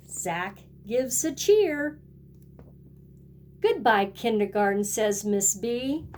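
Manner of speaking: lively picture-book read-aloud with a sing-song refrain; storybook voice for little kids; reading to children. A narrator's reading. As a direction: read it like storytime for a kindergarten class. Teacher reads picture book to class.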